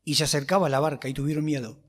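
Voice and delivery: measured Bible reading voice; reading the Gospel to the church, measured and steady; scripture reading. Acted. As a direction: read the passage steadily to the congregation. Reads scripture aloud before preaching.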